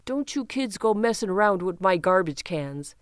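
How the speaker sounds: mock cranky Chicago grown-up scolding kids; lightly put-on gruff adult warning the kids off; imitating a jerk adult shooing kids away; grumpy neighborhood adult. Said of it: "they'd be like".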